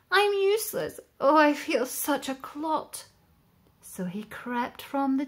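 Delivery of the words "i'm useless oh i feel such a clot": sad inner thought. Acted. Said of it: "he thought".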